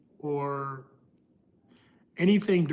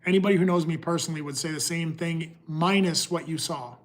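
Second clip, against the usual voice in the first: talking with something in mouth; mouth full. Real, not acted. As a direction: speak around something in your mouth. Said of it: "Sorry, I got something in my mouth".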